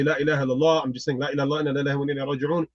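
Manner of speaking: understated murmured recitation, retold; staying calm. Man reciting to himself to stay calm, retold calm recitation. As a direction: recite under strain, keeping yourself composed. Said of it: "I kinda try to stay calm".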